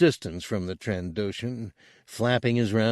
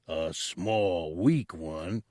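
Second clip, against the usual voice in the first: angrily; 3 semitones lower, 5 dB quieter, much slower than usual. A narrator's reading. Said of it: "Chen Lambeck answered angrily".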